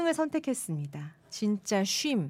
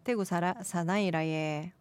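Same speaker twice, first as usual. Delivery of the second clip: Daegu dialect attempt; 3 semitones lower than usual. Shown as a demonstration. Host retrying a listener's phrase, unsure Daegu dialect. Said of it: "제가 대구 사투리 잘 모르겠어요".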